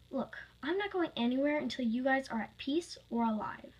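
mildly insistent refusal; a touch of stubborn protest; arguing. Acted. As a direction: stand your ground, lightly acted. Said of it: "Natalie argued".

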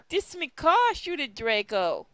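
a put-on Irish lilt, overdone; mock Irish accent. Reading a fanfic line in a mock Irish accent. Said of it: "I'm dropping the accent for this".

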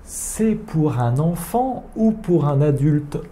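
slowed French question; slow model phrase. Shown as a demonstration. A teacher repeats the pharmacist's question for students. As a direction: say the question slowly and clearly. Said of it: "Kodomo yo desu ka?".

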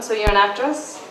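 cool, brisk, businesslike delivery; all business, no warmth; business monotone. Acted. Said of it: "continued in her business monotone".

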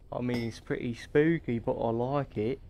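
playful put-on British accent; casual fake British accent. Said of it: "it's getting more British as I go".

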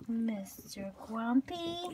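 Mister Grumpy stretched slowly; slow teasing Mister Grumpy; slow drawn-out. Real, not acted. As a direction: draw out the nickname slowly. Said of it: "repeated nickname".

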